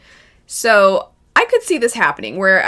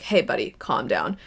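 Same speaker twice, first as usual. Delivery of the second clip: imitating Mikasa; 9 semitones lower, 5 dB quieter than usual. Mikasa soothing Eren, retold.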